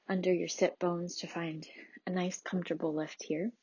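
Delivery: measured, soothing prenatal yoga teacher; gentle yoga instruction. Acted. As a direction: lead a calm restorative class, leaving long pauses. Leads a restorative yoga practice.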